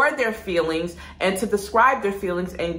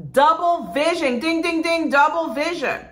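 ding ding excitement; 7 semitones higher than usual. Shown as a demonstration. Flags key symptom with bell.

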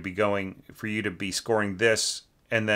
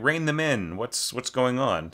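mock panic; 4 semitones higher than usual. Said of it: "as opposed to just".

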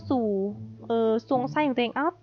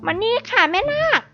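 mock ghost summoning; 6 semitones higher than usual. Summoning ghost in game, playful.

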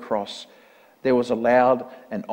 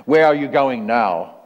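loud, demanding demon; demon's cry; 7 dB louder than usual. A narrator's reading. Demon questions the departing priest, loud cry. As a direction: call it out as the demon. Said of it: "cried the demon".

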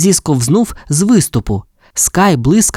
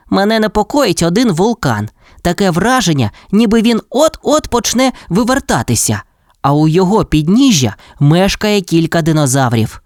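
lightly voiced Rex, higher and uneasy; worried Rex; 7 semitones higher than usual. Rex warns Ryder about the volcano, worried. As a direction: raise the pitch a little, report a worry.

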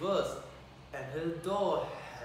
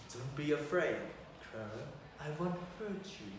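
friendly; 4 dB quieter, faster than usual. Acted. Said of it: "said a friendly voice".

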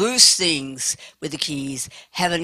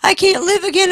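put-on high, rising wail of a heartbroken girl; retold bawling; 7 semitones higher, 3 dB louder than usual. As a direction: imitate the sobbing girl, climbing higher each line. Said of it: "She's bawling".

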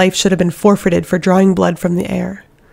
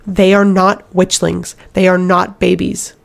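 spat. Acted. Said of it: "Elide spat".

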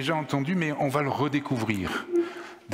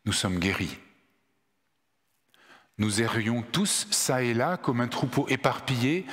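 measured public reading, phrase by phrase with pauses; solemn Scripture reading; 3 semitones higher than usual. Acted. Reader gives Isaiah's prophecy to the congregation, solemn measured reading. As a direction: read the prophecy out to the congregation, letting each phrase land.

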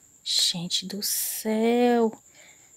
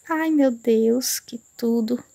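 thrilled gasp; 3 dB louder, much slower than usual. Real, not acted. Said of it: "tô passada".

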